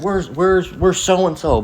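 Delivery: high, pushy thug at the door; demanding thug. Retold or imitated. Skinhead at the door demanding where the uncle is, pushy high voice. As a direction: thug demanding the gambler at night.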